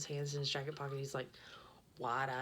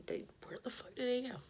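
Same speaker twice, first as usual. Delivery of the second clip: higher, whispered disbelief; baffled whisper; 9 semitones higher than usual. Retold or imitated. Whispering in disbelief about where the stranger went. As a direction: whisper it, bewildered.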